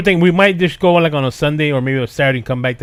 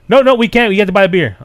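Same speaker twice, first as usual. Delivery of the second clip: higher, louder mock objection; imitated firm refusal; 4 semitones higher, 5 dB louder than usual. Retelling sellers refusing him michelada mix, in raised protest. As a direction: play the seller turning a customer down.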